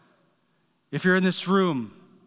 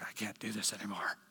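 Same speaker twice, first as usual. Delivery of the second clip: much softer, defeated murmur; giving up; 9 semitones lower, 17 dB quieter than usual. Retold or imitated. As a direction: barely voice it, hopeless and drained. Voicing someone giving up.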